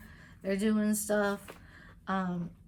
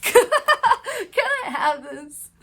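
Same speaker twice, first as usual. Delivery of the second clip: "Can I have this?" through a laugh, a touch higher and louder; laughing polite ask; 13 semitones higher, 10 dB louder than usual. Pretend. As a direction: giggle out the polite request. Mock polite food request, laughing.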